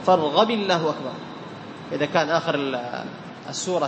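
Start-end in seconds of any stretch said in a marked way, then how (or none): 0.0-1.1 short i after فارغب, light l in الله; kasra joining. Shown as a demonstration. Teacher reminds students of the rule, kasra joining. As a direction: link فارغب to الله as "farghabi-llah". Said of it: "يكسر كما قلنا".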